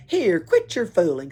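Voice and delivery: put-on loud gruff snap at the girl; angry burglar. A narrator's reading. Burglar snapping at Pippi, loud and angry. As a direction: bark it like an annoyed tramp. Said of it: "said Thunder Carlson angrily".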